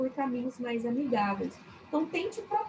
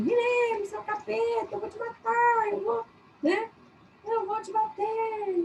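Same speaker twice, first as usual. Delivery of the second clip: high-pitched yelling mother voice; 9 semitones higher than usual. Showing how a mother scolds her child: imitating a mother yelling. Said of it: "Que a mãe tá gritando".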